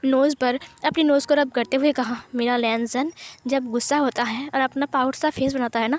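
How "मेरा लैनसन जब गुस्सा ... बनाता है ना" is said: tender sweet talk. Acted. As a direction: coo it to him nose to nose. Wing nuzzles, sweet talk.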